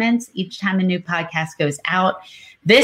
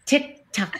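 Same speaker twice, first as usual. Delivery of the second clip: clock sound effect; 4 semitones higher, 6 dB quieter than usual. Pretend. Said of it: "Can I do a sound effect?".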